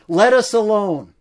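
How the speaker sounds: demon crying out. Acted. Preacher voicing the demon's loud cry, shouting. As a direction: hurl it out as the possessed man. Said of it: "He cried out with a loud voice".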